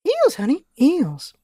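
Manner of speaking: mom voice. Shown as a demonstration. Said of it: "different takes on the May's mom voice".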